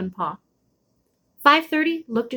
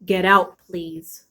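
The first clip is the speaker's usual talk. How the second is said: low throaty growl; 4 semitones lower, much slower than usual. Acted. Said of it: "a sound deep down in his throat".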